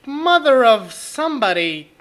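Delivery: jump-scared yell, slowing down; startled shout. Real, not acted. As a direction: gasp then frightened cry. Jump scare, gasp and cry.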